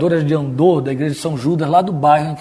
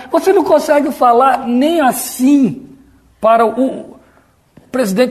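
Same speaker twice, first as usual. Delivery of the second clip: much higher, slow, pompous delivery; puffed-up intonation; 8 semitones higher than usual. Shown as a demonstration. Preacher mocking the voice saved for prayer, pompous intonation. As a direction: inflate the voice in mock grandeur. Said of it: "empola a voz".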